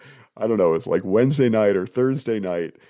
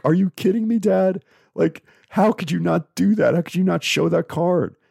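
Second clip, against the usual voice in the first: put-on high, exasperated kid's voice, pitched well up; a twelve-year-old scolding his dad, high and exasperated; son scolding dad; 8 semitones higher than usual. Son scolds dad in the car home, high and exasperated. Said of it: "he's telling a forty-two-year-old man".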